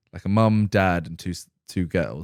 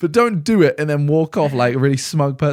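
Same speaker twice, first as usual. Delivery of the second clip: louder, higher exasperated rant; heated rant; 5 semitones higher, 5 dB louder than usual. Real, not acted. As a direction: vent at the smug passenger. Ranting at smug passenger.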